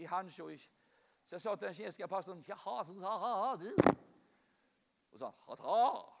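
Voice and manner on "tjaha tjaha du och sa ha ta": slow, strained croak with barely any voice; voice gone. Retold or imitated. Preacher telling the Chinese pastor he has lost his voice, croaking. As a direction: rasp it out as if the voice has failed. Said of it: "det kom ingen röst".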